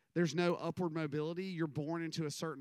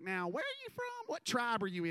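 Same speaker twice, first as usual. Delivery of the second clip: redneck aunt voice; 7 semitones higher than usual. Retold or imitated. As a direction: voice the puzzled relative high. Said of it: "they would be like".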